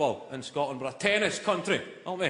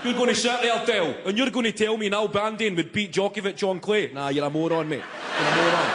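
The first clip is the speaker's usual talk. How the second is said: raised, higher mock-heated pub rant; mock pub argument; 5 semitones higher than usual. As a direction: play a bloke ranting at his mate in the pub. Pub guys arguing about tennis.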